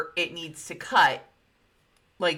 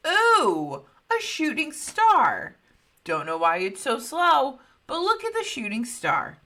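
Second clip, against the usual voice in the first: excited gasp; 8 semitones higher, 4 dB louder than usual. Retold or imitated. Betty excited at light.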